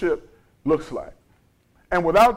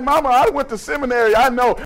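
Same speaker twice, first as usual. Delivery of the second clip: retold protest; 5 semitones higher, faster than usual. Retold son protesting to his mother.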